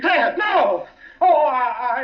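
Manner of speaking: a frightened little laugh breaking through; cornered husband laughing nervously under the captain's questioning. Acted. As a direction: laugh in panic as the lie collapses. Suspect cracks under questioning.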